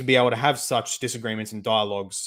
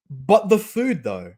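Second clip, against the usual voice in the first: sarcastic punchline; 8 semitones higher, 5 dB louder, slower than usual. Acted. Sarcastic punchline after mock quote.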